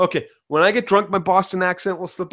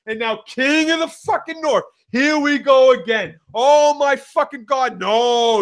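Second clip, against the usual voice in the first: Sansa's exasperation; 6 semitones higher than usual. Retold or imitated. Voicing Sansa as her brother is named king, mock exasperation. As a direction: groan it out in hammed-up disbelief. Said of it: "It turned from like".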